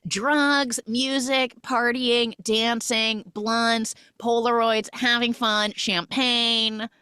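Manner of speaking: high, level chant of items; sing-song list. Real, not acted. Narrator sums up a party montage, sing-song list.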